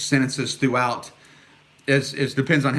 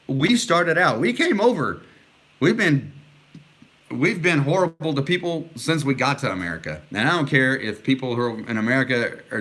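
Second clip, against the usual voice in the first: raised pitch, heated and insistent; really fired up, pushing every line higher; worked up; 3 semitones higher than usual. Real, not acted. Host worked up about racism, speaking to viewers, heated and raised. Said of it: "I'm so worked up right now".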